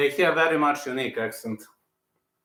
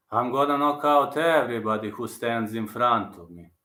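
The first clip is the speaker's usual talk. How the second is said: Prohaska impression; 3 semitones lower than usual. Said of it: "I know Prohaska's impression really good".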